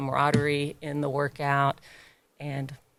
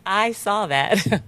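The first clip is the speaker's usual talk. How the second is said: higher, louder, drawn-out reassurance; playful acknowledgement; 6 semitones higher, 7 dB louder, much slower than usual. Retold or imitated. Trainer to clients who held the plank, playful drawn-out acknowledgement. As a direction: stretch it out slowly, proudly letting them know.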